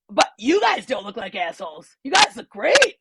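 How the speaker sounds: nervous gushing reassurance; awkward overcompensating. Retold or imitated. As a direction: gush to cover the awkward moment. Awkward compliment to neighbours.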